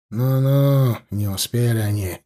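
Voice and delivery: usual speaking voice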